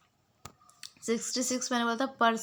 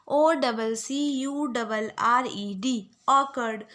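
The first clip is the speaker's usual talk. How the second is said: slow drill spelling; slower than usual. Shown as a demonstration. Teacher drilling spelling for students to repeat. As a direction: drill it slowly for the class to repeat. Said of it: "आप लोग बार बार repeat कर लो".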